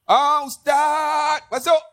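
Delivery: drawn-out, hearty call to come in; calling welcome. Retold or imitated. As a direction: greet a guest with a long stretched call. Host welcomes preacher at door.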